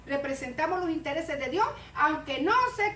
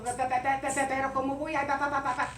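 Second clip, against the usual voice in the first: a light mock stutter on every syllable; lightly voiced stammer, repeating the first sound; stuttering Moses; 4 semitones lower than usual. Preacher mimics Moses stammering before God, light mock stutter. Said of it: "tartamudo, gago y todo".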